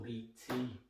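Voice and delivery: "Li Ti" with the second word rhyming with "tea"; slow second guess at "Li Ti", ending in ee; alternative pronunciation. Shown as a demonstration. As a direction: say "Li Ti" slowly with an ee ending. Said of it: "know how his name's pronounced".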